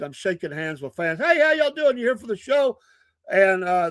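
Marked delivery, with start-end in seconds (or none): 1.2-2.8 much higher, glad-handing politician voice; Mister Politician. Retold or imitated. Shaking hands with fans, hammed-up politician greeting. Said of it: "I'm like Mister Politician".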